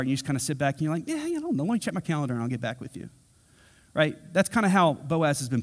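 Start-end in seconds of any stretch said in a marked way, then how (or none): 1.1-3.1 playing it cool. Casually stalling a job offer.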